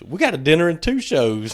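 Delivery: quoting his son with a laugh breaking in; half-laughing punchline; laughing through it. Retold or imitated. Son's joke retold through laughter. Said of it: "He goes".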